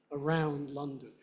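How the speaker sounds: "around" stressed on its second syllable; weak "a", stronger "round", then "London". Shown as a demonstration. Teacher modelling two-syllable function words, stress on -round. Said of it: "syllable that's more stressed than the other".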